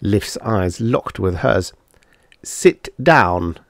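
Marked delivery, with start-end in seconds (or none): 2.4-3.6 cold. Acted. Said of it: "he said coldly".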